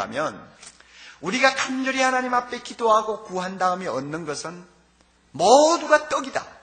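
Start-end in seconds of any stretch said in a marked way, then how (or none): 5.3-6.6 모두가 떡이다 proclaimed high, loud and slow; emphatic declaration. Acted. Pastor driving home his sermon's point, loud and slow. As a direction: hammer the point home word by word.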